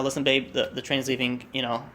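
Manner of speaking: understated, subdued retelling, low and soft; holding back emotion. Retold or imitated. Husband says the train's leaving, holding back emotion. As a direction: keep the feeling held in. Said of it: "trying to hold back his emotions".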